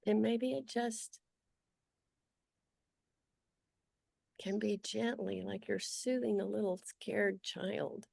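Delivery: unhurried guiding voice with long pauses; guided meditation. Acted. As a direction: gently lead them through noticing, leaving long silences.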